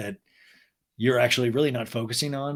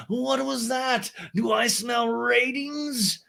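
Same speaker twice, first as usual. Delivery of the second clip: high, slow, gleeful mock drawl; hammed-up Lisa; 9 semitones higher, much slower than usual. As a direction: savour it like a delighted gossip. Lisa watches from her table.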